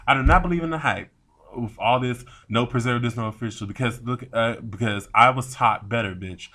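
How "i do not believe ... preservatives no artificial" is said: emphatic scoffing. Retold or imitated. Mocking his health claim.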